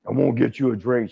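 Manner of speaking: lightly imitated wrestler voice; a touch of the wrestler's familiar voice; Hulk. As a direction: repeat it as the big man, understated. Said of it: "You know that voice he is".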